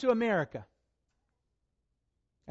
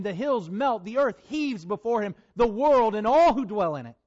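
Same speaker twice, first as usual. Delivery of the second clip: louder, booming declaration of wrath; thundering proclamation; 3 dB louder than usual. Acted. Preacher thundering God's wrath at the church, loud. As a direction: let the verses crash like a storm.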